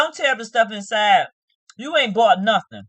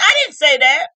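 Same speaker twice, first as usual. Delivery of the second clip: high crying shout of denial; mock yell; 6 semitones higher, 9 dB louder than usual. Imitating her denial to Zach, high crying shout. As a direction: wail it like a tantrum. Denying it in a fight.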